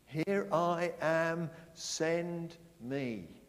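slow, loud proclamation of Isaiah's answer; declaring. Acted. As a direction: call it out slowly, voice of a prophet answering. Preacher voices Isaiah's answer.

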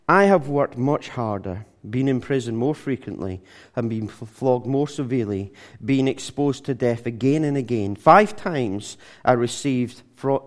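scripture reading. Acted. Reads Paul's boast from scripture.

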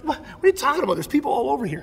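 high, incredulous protest; exasperated disciples. Retold or imitated. Disciples protest to Jesus, exasperated and incredulous. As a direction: scoff like the idea is absurd. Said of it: "they're exasperated with Jesus".

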